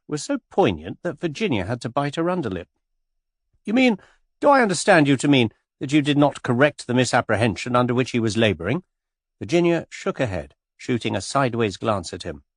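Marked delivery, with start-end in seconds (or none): 3.6-8.8 aghast reproach. Acted. George aghast at her conduct.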